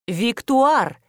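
a firmer second take of the name; firm repeat. A narrator's reading. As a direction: say the name again with insistence. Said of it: "повторила я".

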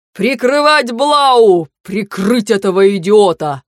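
urgent battle shout, slow on the name; loud desperate command across the fight; shouted order. A narrator's reading. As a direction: yell to cover the reckless heir. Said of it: "последнее, что крикнул Ашту".

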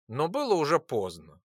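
usual speaking voice

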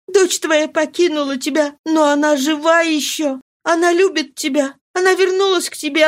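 high, tearful imploring; pleading. Acted. Marie pleading with her mad father: high, tearful. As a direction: plead with him, holding his hands.

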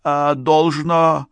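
high, hesitant character voice; high-pitched uncertain suggestion; unsure beekeeper. A narrator's reading. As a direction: offer a timid guess, dragging the words. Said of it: "неуверенно пробормотал пасечник".

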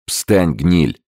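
the gangster barks at the trembling businessman; contemptuous order. A narrator's reading. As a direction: spit the insult at him. Gangster orders cowering man up.

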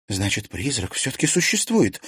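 exclamation with pitch lifted; exclaiming. A narrator's reading. Liza concludes the ghost exists, exclaiming. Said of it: "воскликнула Лиза".

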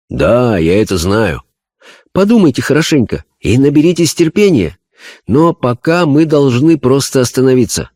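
high, earnest medium voice; a spirit medium describing a vision; seance medium. Acted. Medium consoles. (голос медиума на сеансе)

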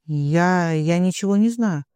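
plain reading voice

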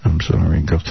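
low monotone apology, imitated; John Stamos. Actor apologising to young fans, mimicked monotone. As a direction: mimic a star brushing off fans. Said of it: "Just like that in a monotone".

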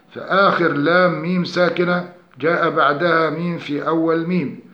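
usual speaking voice

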